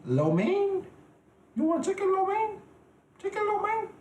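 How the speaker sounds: very high, questioning caricature Asian accent; mock Asian accent. Shown as a demonstration. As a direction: offer it in a squeaky put-on Asian accent. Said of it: "damn, Asian accent is kinda hard".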